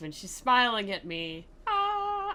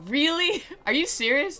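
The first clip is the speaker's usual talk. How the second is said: surprised; 9 semitones higher, 4 dB louder than usual. Real, not acted. Reacting in disbelief to the text.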